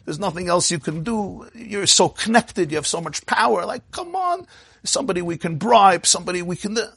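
high pleading plea; pleading while crying. A narrator's reading. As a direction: beg the rabbi through tears. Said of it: "he starts crying even more".

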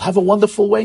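mock dismissive send-off that slips into "way" instead of "day"; slip of the tongue. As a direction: say "Have a wonderful way" with "way" where "day" belongs, as a slip. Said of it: "the worst thing the father does".

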